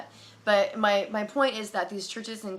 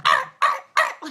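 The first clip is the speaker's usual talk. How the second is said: high, loud yapping barks; hammed-up high-pitched dog barks; mock dog barking; 12 dB louder, slower than usual. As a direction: bark like a dog, mimicking worshippers. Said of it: "like barking like dogs".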